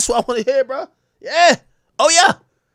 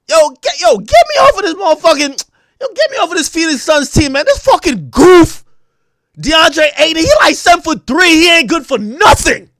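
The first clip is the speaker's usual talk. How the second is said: mock player rant; 4 semitones higher, 5 dB louder than usual. Imitating a Suns player ranting.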